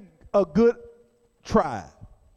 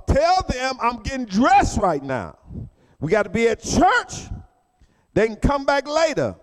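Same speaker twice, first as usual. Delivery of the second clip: irritated; 4 semitones higher, 3 dB louder than usual. Retold or imitated. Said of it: "Him being irritated said".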